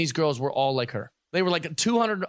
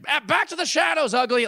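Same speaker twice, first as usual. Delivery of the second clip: snooty sneer; 9 semitones higher than usual. Retold or imitated. Mocking looks from handsome men.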